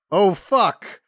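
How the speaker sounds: imitating a flustered goat thief; mocking the neighbor. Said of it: "because you're like".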